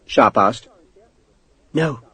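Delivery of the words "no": small, hushed answer; whispered. A narrator's reading. Frightened woman to intruder, whispered. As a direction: answer under your breath. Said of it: "she whispered".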